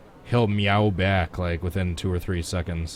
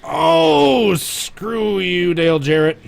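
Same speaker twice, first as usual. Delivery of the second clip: loud, high cry of frustration; angry outburst; 10 semitones higher, 7 dB louder, much slower than usual. Real, not acted. Gamer blaming a driver for wrecking him, exasperated shout. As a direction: curse out a rival, starting on a high yell.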